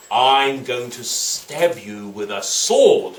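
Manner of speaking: lightly voiced menacing judge; threatening judge. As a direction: stretch out the threat with relish. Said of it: "And then he said".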